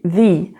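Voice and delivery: "the" with a long ee, slow; drawn-out thee for "the"; teacher modelling thee; English "the" as thee. Shown as a demonstration. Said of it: "à chaque fois que tu as une voyelle".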